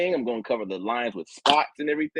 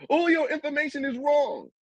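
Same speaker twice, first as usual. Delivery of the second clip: much higher, whiny mock voice; mocking the opponent; 14 semitones higher than usual. Debater mimicking his opponent's complaint, mocking whine. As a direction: parrot him like a whiner. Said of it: "Basically what Anu's telling me is".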